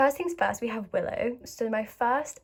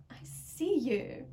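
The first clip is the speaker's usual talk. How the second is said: slow, knowing callout; knowing tease; 3 semitones higher, much slower than usual. Pretend. Fan teasing a singer directly, knowing. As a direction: say it like you're onto her.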